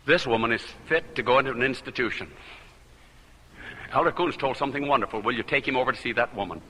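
quick, low rush of the story; fast retelling. Retold or imitated. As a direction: hurry through the report. Retold urgent report.

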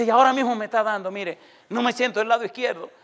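retold distressed woman. Possessed woman tells the visiting preacher her symptoms, retold alarm. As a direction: voice her alarm lightly, pitch lifted. Retells woman having an attack.

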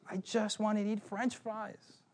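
put-on crying child. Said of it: "And he started crying".

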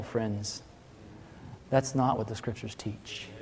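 ordinary talk

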